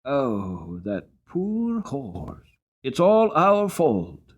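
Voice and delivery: a lady's pitying cry, lifting high; gentle, pained pity for the fallen horse; sweet pitiful voice. A narrator's reading. A kind lady pities the fallen horse, sweet and pitiful. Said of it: "that sweet, pitiful voice saying".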